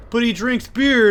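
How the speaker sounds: high-pitched mock whine of objection; imitated childish protest. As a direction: object like an indignant little kid. Child argues back to mother.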